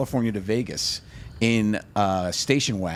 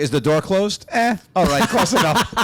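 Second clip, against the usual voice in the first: careless parent; 7 semitones higher, 5 dB louder than usual. Retold or imitated.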